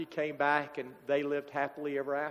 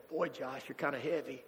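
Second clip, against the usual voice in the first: gentle teasing; 6 dB quieter than usual. Retold or imitated. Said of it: "You can hear Jesus saying".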